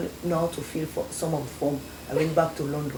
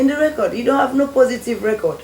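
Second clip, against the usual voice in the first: much higher and louder, a hammed-up mocking question; mock British man; 7 semitones higher, 8 dB louder than usual. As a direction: play the teasing foreigner, pitched up high. Retold British man mocking her.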